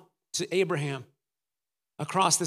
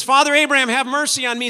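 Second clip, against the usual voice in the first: loud, high plea for mercy; crying out; 6 semitones higher, 9 dB louder, faster than usual. Acted. Rich man in hell begging Abraham for mercy, crying out. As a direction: cry out across a great distance. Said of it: "he's crying out for mercy".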